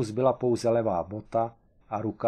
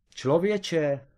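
exclaiming; 6 semitones higher than usual. A narrator's reading. Kareš crying out to Tomeš, excited. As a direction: burst out with the idea. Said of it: "vykřikl Kareš".

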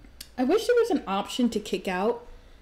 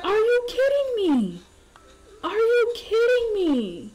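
outraged disbelief; 11 semitones higher than usual. Pretend. Hallie catching her man cheating, outraged squeal. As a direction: voice her betrayed Sim shrieking at him. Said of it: "She's like".

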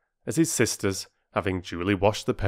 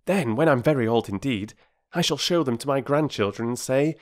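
lightly voiced eager boy; forthright boy; 6 semitones higher, 4 dB louder than usual. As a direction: argue keenly as a young brother. Voices Peter in the story.

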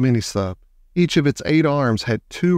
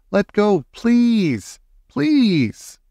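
high-pitched, pleading call; mild shout; 9 semitones higher, much slower than usual. A narrator's reading. Annie begs the octopus to let go, shouting. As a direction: plead in a raised voice without full volume. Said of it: "Annie shouted at the octopus".

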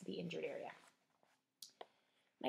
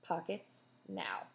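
impatient; much slower than usual. Acted. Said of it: "tapped a foot impatiently".

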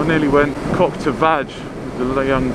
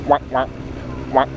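imitating quacking. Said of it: "the quacking video".

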